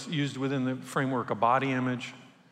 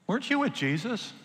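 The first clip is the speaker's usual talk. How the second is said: put-on high-pitched, questioning servant girl; 9 semitones higher than usual. Servant girl questioning Peter by the fire, high put-on voice. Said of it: "this little servant girl".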